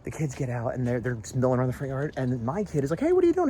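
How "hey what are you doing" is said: put-on high, loud child's holler; imitated kid calling out. Kid hailing neighbor kids in the yard, high loud imitation. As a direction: call across the yard like an eager kid.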